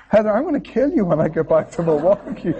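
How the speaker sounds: mock threat through laughter; laughing mock threat. Real, not acted. Telling his wife he'll get her, laughing. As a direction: threaten her while cracking up.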